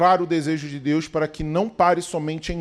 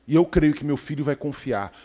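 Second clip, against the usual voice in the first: normal talking voice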